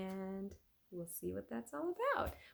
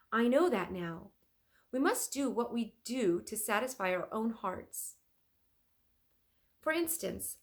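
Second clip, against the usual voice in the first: louder, convinced artist; firm Leonardo; 4 semitones higher, 5 dB louder than usual. Acted. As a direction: passionate painter declaring his creed.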